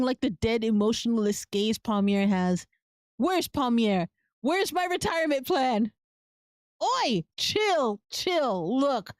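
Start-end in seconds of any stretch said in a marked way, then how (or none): 3.2-5.9 shouted demand. Acted. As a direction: yell it at the impostor. Demanding the missing heir.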